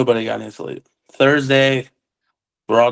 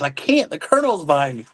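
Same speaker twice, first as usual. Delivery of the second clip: retold urgent protest; 4 semitones higher than usual. Driver protesting in retold exchange.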